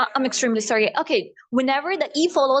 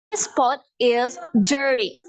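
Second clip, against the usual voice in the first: American accent; much slower than usual. Shown as a demonstration. Teacher models pot is dirty, American accent. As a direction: flap the T, slow American.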